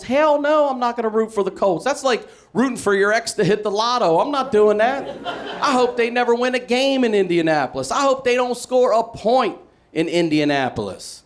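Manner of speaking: loud, high, bitter rant. Real, not acted. Fan ranting at the crowd about the Colts, bitterly. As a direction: vent the grudge at full tilt.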